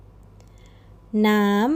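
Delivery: น้ำ held slow on a high tone. Shown as a demonstration. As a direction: keep น้ำ up high and drawn out. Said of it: "น้ำ high tone".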